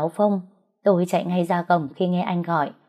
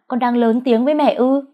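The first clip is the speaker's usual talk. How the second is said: higher, louder outraged rebuke; indignant mother; 6 semitones higher, 5 dB louder than usual. A narrator's reading. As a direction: scold the son for talking back. Bà mẹ cãi nhau với con. (mẹ phẫn nộ quát con)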